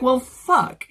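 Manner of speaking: high, loud exasperation breaking into laughter; amused mock dismay. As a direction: curse in comic defeat, about to laugh. Imagined dismayed reaction to the reveal.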